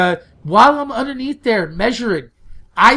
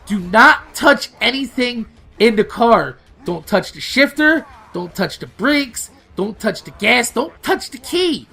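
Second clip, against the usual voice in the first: firm warning; 4 semitones higher than usual. Retold or imitated. Instructing girlfriend firmly, retold.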